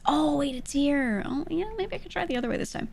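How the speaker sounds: high-pitched mimicking voice; imitated people. Streamer quoting what people always say, high mimicking voice. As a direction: pitch it well up, as someone else. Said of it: "I hear people always".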